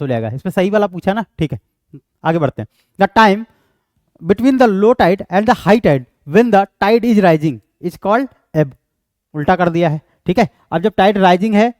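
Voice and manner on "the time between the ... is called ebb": slow option read-out. Acted. Reads quiz option aloud.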